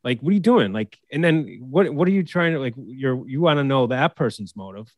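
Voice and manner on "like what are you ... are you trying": a touch of heated frustration, pitch rising at the end; mock-rant at a coach, half in earnest; fired up. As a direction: player venting at a bad call, mildly heated. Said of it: "I get emotional about it or fired up".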